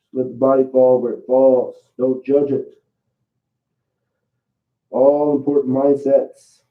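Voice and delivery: muffled, face down on the mat; talking into the mat. Real, not acted. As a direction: speak with your face in the mat. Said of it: "Let go that I'm talking into the mat".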